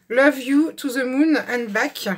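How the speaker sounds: slow English phrase with a French accent; carefully spoken English in a French accent. Real, not acted. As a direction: read the English slowly, French accent showing. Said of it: "excusez pour mon anglais".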